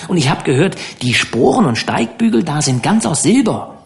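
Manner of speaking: put-on a touch of boyish wonder; eager, curious boy. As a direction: pepper him with questions like a country kid. Dan asks eagerly about the West.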